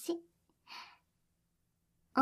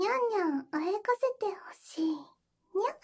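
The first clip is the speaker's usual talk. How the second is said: put-on high cute anime girl; 3 semitones higher than usual. Shown as a demonstration. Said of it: "萌え声出せるんだけど".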